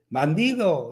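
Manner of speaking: put-on half-hearted boy's shout; mock child's shout. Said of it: "di algo, grita algo". (grito fingido de niño, contenido)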